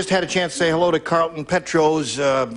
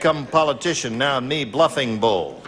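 Sitting Bull; 2 semitones lower than usual. Acted. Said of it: "Sitting Bull say".

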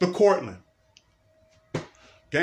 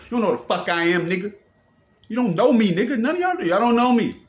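shouting, the pitch jumping much higher; angry shout; 6 semitones higher, 3 dB louder than usual. Real, not acted. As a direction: yell it straight at the people spying on him. Angry outburst at people spying.

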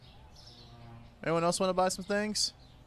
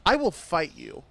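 louder playful threat; mock threat; 7 dB louder than usual. Shopkeeper threatening a customer in jest, louder mock threat. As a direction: threaten the shopper half-jokingly.

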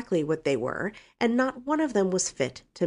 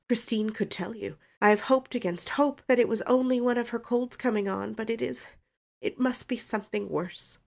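higher, tearful acted mother; sobbing; 7 semitones higher than usual. A narrator's reading. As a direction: pour out worry as if crying. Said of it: "she sobbed".

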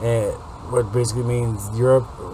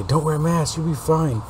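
mocking; 6 semitones higher than usual. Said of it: "anti-masker morons out there that say".

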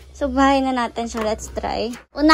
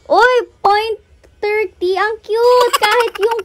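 excited; 5 semitones higher, 7 dB louder than usual. Real, not acted. Cooing over stuffed toy's weight.

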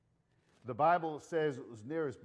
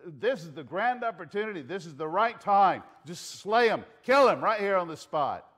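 louder, raised urgent pitch; urgent egging-on; 3 semitones higher, 6 dB louder than usual. Acted. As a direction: urge him on, building to a punch. Acted urging to strike now.

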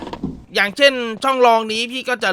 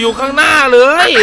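startled laugh, a bit louder; nervous laugh; 5 semitones higher, 5 dB louder than usual. Real, not acted. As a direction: laugh out the fright.

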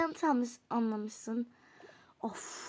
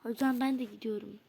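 whisper; 4 semitones lower, 7 dB quieter than usual. Acted. Quietly leaving the class.

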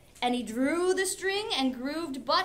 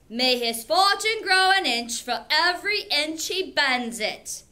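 louder sneering jibe; disdainful suitor; 3 semitones higher, 6 dB louder than usual. Acted. Teacher voices a disdainful suitor mocking the beggar. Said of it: "one disdainful suitor added this".

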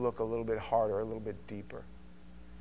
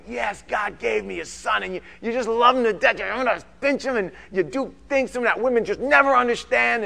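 much higher and louder, exultant; joyful shout; 7 semitones higher, 8 dB louder than usual. Retold or imitated. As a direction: cry out like a proud new father. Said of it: "It's like".

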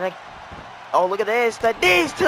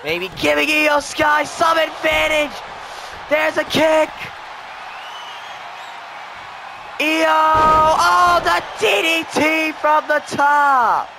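excited call; 2 semitones higher than usual. Real, not acted. Commentator calling the comeback, excited. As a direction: sell every move as huge. Momentum swings to Io Sky.

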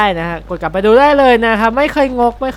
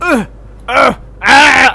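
demo grunt; 6 semitones higher, 6 dB louder than usual. Shown as a demonstration. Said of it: "grunt ก็แบบ grunt grunt".

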